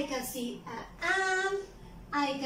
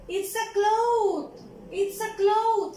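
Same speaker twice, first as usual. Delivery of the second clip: bright teacher answer; 4 semitones higher, 3 dB louder than usual. Shown as a demonstration. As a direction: announce it like a happy reveal to kids. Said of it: "What is it?". (respuesta de maestra animada, más aguda y fuerte)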